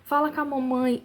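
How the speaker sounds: mock-wailing plea, not a full yell; retold children's cries. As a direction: imitate boys begging in panic. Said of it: "os meninos começaram a gritar".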